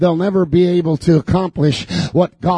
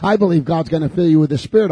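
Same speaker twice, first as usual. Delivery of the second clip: ordinary talk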